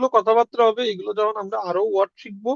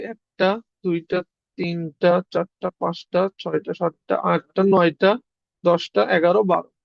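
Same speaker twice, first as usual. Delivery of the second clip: slow counting; 3 semitones lower, slower than usual. Shown as a demonstration. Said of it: "কয়টা আছে".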